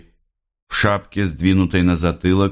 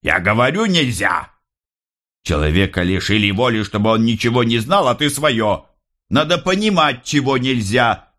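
guard; 5 semitones higher than usual. A narrator's reading. Guard rebukes the mother.

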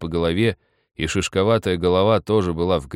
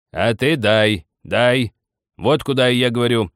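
loud, higher, pleading demand; suffering shout; 5 semitones higher, 6 dB louder than usual. A narrator's reading. Old man demands vodka from his wife, anguished shout. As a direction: beg and order at once, pained. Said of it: "крикнул старик страдальчески".

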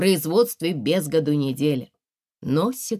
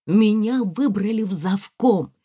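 eager, raised news to her husband; proud news; 6 semitones higher, 4 dB louder than usual. Acted. Wife announcing her election to husband, eagerly. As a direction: blurt out the good news, lifted and bright.

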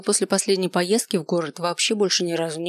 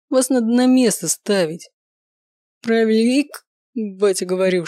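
громкая пьяная тирада; распаляется, отчитывая; бушует. Acted. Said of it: "Он бушевал всё больше". (пьяный бушует, всё громче)

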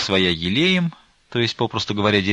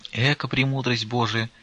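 tender awe; 3 semitones higher, 5 dB quieter than usual. A narrator's reading. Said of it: "с умилением сказала Веринея".

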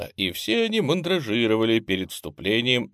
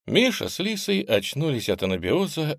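usual speaking voice

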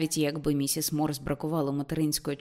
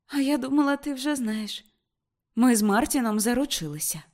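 1 surprised; 7 semitones higher, 4 dB louder than usual. Acted. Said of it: "здивовано глянула на матір".

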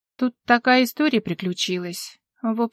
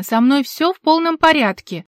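higher, louder indignant retort; indignant protest, higher and louder; 6 semitones higher, 6 dB louder than usual. Acted. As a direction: stamp your foot with your voice. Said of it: "топнула ногой".

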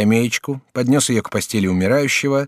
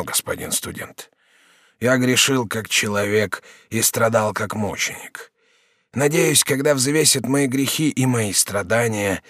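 dying prisoner, slow. Acted. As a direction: weigh each word like a dying man. Prisoner on his suffering.

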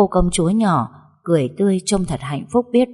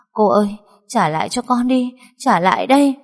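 put-on sobbing child's plea rising higher; tearful pleading; 5 semitones higher, 3 dB louder than usual. Crying girl chases the stepmother, tearful pleading. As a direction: whimper it through tears, pleading. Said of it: "miệng không ngừng mếu máo".

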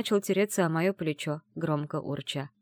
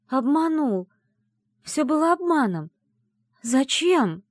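high, louder broken-hearted lament; anguished; 8 semitones higher, 5 dB louder than usual. Acted. Heroine betrayed, lamenting in despair. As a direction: cry out the betrayal in pain.

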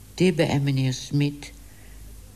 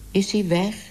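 anxious call; 4 semitones higher than usual. Acted. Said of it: "riep het hoofd".

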